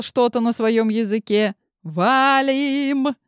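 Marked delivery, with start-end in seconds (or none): 1.8-3.2 high yelled call to flee; urgent yell. Acted. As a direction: shout it urgently to run. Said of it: "заорала Глафира".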